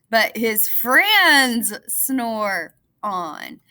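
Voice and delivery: put-on lively read-aloud for kids; storybook narration. A narrator's reading. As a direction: tell it like a bedtime story. Reads picture book aloud.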